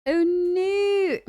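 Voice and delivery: a sudden yelp of alarm; surprised oh no. Real, not acted.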